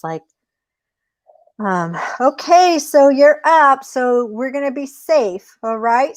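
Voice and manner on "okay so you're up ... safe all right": lightly voiced rabbit, pitched up; brisk, raised voice for a storybook rabbit; reassuring rabbit. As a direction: play the rabbit giving assurance.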